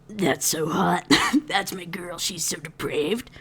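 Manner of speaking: slow, whispery mock swoon; breathy swooning. Cal retold admiring his depraved wife, breathy swooning. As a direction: let it sink into an awed whisper.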